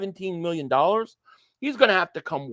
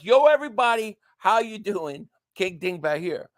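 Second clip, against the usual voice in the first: spelled-out video intro. Shown as a demonstration. Streamer explaining what the intro says, spelled-out greeting. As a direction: say each word of the catchphrase distinctly. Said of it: "So it's".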